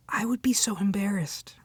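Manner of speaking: hushed and mortified; mortified half-whisper; embarrassed whisper. Acted. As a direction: whisper it as if ashamed to say it. Imagining the author heard her.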